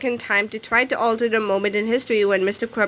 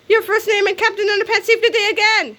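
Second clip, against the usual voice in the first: laughing triumph; 10 semitones higher, 4 dB louder than usual. A narrator's reading. Triumphant ending.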